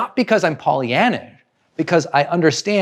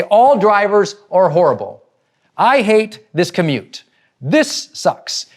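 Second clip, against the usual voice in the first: raised, emphatic griping; mock road rage; 5 semitones higher, 4 dB louder, slower than usual. Driver freaking out over being cut off, mock angry. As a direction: imitate a fed-up driver venting, hitting each word. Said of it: "They completely freak out".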